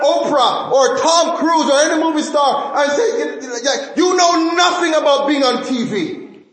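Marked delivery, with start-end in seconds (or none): 4.0-6.4 high, shouted mock scorn; playful shouted put-down. Mock rebuke of a movie star.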